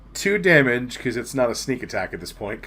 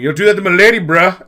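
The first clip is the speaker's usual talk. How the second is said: loud, higher-pitched outraged yell; screaming; 8 semitones higher, 11 dB louder, faster than usual. Acted. Game master voices Thrax defending his lady, screaming. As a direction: shout it at him as a challenge. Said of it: "Thrax was just screaming".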